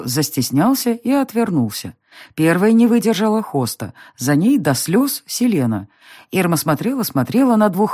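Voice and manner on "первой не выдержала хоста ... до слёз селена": ordinary delivery, nothing marked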